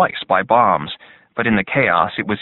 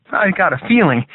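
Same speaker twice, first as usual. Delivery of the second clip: soldier voice; 10 semitones higher, 3 dB louder than usual. A narrator's reading. Hugh voiced, frightened soldier.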